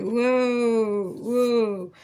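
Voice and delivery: startled pull back; hammed-up startled whoa; mock alarm. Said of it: "It's like".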